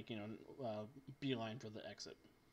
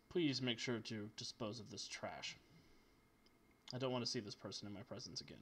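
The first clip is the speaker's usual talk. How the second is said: dismissive villain; 2 semitones lower, 3 dB quieter than usual. Acted. Game master voices dismissive Zoth.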